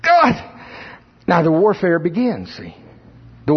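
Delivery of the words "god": high, loud plea to God; crying out to God. Retold or imitated. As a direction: cry out to God in desperation. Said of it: "I'm starting to cry out".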